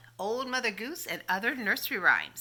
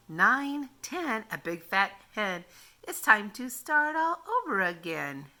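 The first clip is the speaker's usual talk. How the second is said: put-on sing-song read-aloud for little kids; reading nursery rhymes. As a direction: read it like grandma at story time. Reads counting rhymes aloud.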